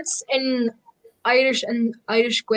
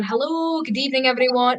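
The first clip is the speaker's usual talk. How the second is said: demo greeting; 4 semitones higher than usual. Shown as a demonstration. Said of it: "say to everyone".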